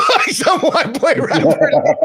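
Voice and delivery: high, slow words through laughter; cracking up at the thought; laughing. Real, not acted. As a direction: laugh it out in disbelief. Laughing at own story.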